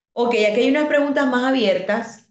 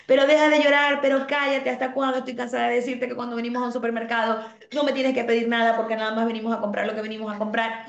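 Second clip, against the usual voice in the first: impatient mom yelling; 2 semitones higher, faster than usual. Retold or imitated. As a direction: play the exasperated mother snapping at her kid. Mother scolding crying child.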